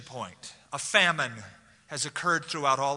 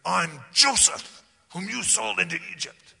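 accusing; 3 semitones higher, 4 dB louder than usual. Shown as a demonstration. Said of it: "I don't think he said".

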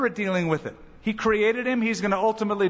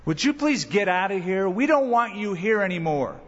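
mock townspeople. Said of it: "And they said".

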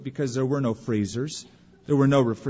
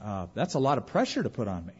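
overwhelmed believer. Pretend. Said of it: "you might say".

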